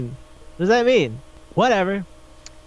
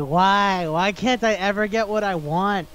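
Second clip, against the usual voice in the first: higher, plaintive retold wail; lightly acted tearful complaint; mock crying; 4 semitones higher, slower than usual. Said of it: "he's just in his room crying".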